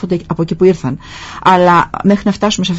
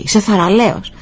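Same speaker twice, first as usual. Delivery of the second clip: imitated echo, less forceful; echo coming back; 3 semitones higher than usual. Mountains return the father's praise, softened echo. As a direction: repeat it back like the hills answering. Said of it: "η φωνή ξανακούστηκε".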